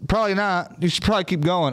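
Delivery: grumpy brush-off. Retold or imitated. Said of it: "I'm pissed".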